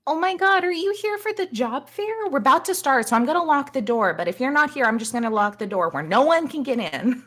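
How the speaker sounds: very high, loud and chirpy, half laughing; bubbly receptionist. Acted. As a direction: gush like an overeager greeter rushing to lock up. Bubbly receptionist Misty at door.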